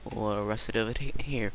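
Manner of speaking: fast unvoiced whisper. Real, not acted. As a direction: whisper it to yourself quickly. Whispered aside while playing.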